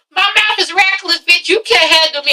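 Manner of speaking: laughing quote. Retold or imitated. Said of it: "she was like".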